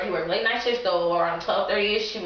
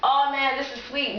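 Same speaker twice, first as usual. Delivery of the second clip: light chuckle; 5 semitones higher than usual. Retold or imitated. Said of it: "It wasn't like a".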